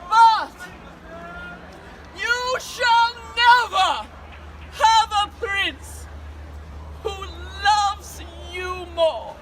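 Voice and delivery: warm regal boom. Acted. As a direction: proclaim it to the crowd like a queen. Queen addresses her subjects.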